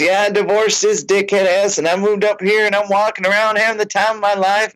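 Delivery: proud tipsy fan. Retold or imitated. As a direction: brag it, climbing up.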